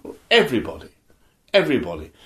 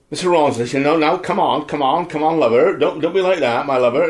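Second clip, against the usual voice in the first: put-on Cornish accent; 3 semitones higher, 4 dB louder than usual. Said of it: "doing all that Cornish stuff because Ben did that".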